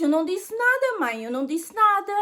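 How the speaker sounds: a hint of a young son insisting he said nothing; lightly voiced son.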